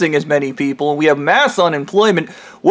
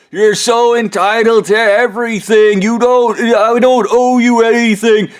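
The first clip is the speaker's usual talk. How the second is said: higher, slow, sneering rich-man voice; snooty rich villain; 4 semitones higher, slower than usual. Retold or imitated. Ham Man sneering at his captors. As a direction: sneer it out like a spoiled billionaire.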